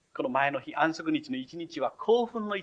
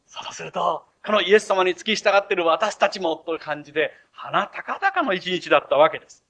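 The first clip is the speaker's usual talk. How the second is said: excited; 3 semitones higher, 4 dB louder than usual. Retold or imitated. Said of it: "興奮して".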